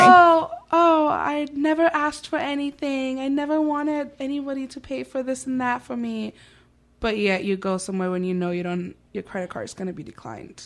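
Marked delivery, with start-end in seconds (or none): 0.0-6.3 mock whiny friend. Imitating the lying friend.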